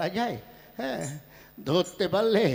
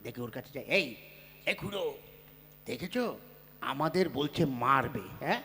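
much softer, lower muttered plotting; conspiratorial hush; 6 semitones lower, 8 dB quieter than usual. Acted. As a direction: whisper the plan to your ally. Plotting aside to other old man. (ফিসফিস করে ষড়যন্ত্র)

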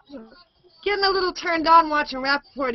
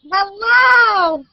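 excited greeting; 6 semitones higher, 7 dB louder than usual. Real, not acted. Greeting back loudly.

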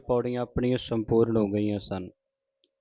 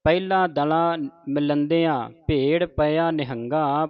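scripture recitation. Shown as a demonstration.

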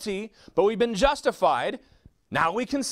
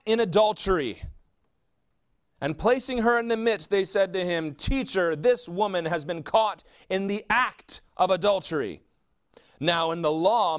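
scripture reading; 2 semitones lower than usual. Acted. Preacher reading John eight to the congregation, measured.

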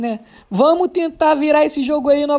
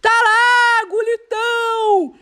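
explosive goal commentary; 3 semitones higher, much slower than usual. Real, not acted.

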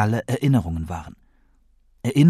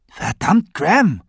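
furious, loud and high exclamation; acted angry protest; angry outburst; 9 semitones higher, 5 dB louder, slower than usual. A narrator's reading. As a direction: burst out in indignant anger. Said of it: "sagte ich wütend".

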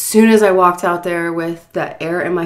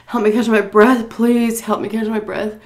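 pleading prayer; 5 semitones higher than usual. Retold or imitated. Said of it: "I was praying".

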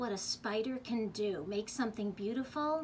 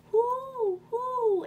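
high, loud, long hoots; owl hooting; 13 semitones higher, 7 dB louder than usual. A narrator's reading. Reader voicing the owl for children, hooting. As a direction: hoot it out like an owl. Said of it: "asked the owl".

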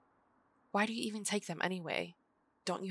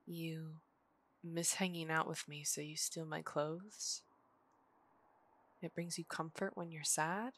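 softening realization; 2 semitones lower, 6 dB quieter than usual. Acted. Realizing the friend missed her, softly surprised. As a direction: ease off as it dawns on you.

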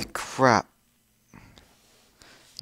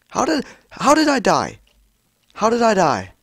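much higher, louder, outraged How did I die; disbelieving shout; 10 semitones higher, 7 dB louder than usual. Real, not acted. Gamer yelling at the game over an unfair death, outraged disbelief.

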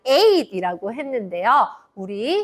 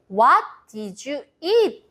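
slow model phrase; much slower than usual. Shown as a demonstration. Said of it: "이라고 물어봐요".

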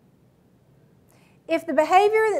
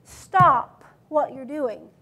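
curt command; 3 semitones lower, much slower than usual. Shown as a demonstration. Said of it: "I didn't say".

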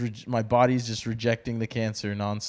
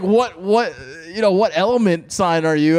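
loud, higher-pitched imitation of a question; animated retelling; 6 semitones higher, 8 dB louder than usual. Host mimicking guest's guessing during the break, animated retelling. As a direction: retell her question loudly and high.

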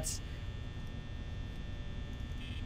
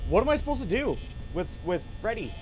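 quick, higher-pitched complaint; exasperated question; 3 semitones higher, faster than usual. Real, not acted. Player at a loss with Freddy, exasperated. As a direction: ask it fast, at a loss. First asking, before the yelled repeat.

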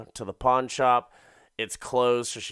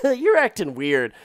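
higher, louder, half-laughing jab; hammed-up suspicious boyfriend; mock accusing; 8 semitones higher, 7 dB louder than usual. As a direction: tease her for acting strange. Boyfriend reacting to her hiding.

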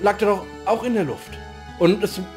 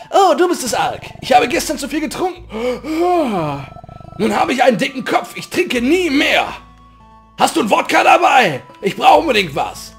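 hungover villager voice; 4 semitones higher, 4 dB louder than usual. Acted.

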